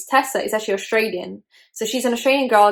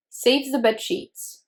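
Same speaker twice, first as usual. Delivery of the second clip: slow, higher-pitched echo; disbelieving repeat; 4 semitones higher, much slower than usual. Real, not acted. Vlogger dwelling on the shocking book detail, disbelieving repeat. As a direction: repeat it slowly to let it sink in.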